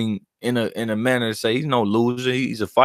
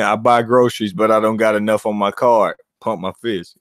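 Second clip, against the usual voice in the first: Mikey Garcia impression; 3 semitones lower than usual. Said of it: "doing my best Mikey Garcia impersonation".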